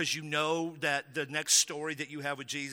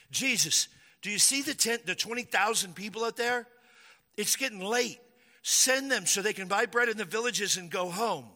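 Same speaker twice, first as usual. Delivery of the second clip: higher, pleading disciple voice; a fretful follower begging Jesus; worried disciple; 5 semitones higher than usual. Acted.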